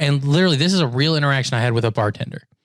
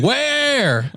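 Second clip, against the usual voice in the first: mimicking the bartender; 11 semitones higher than usual. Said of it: "And he's like".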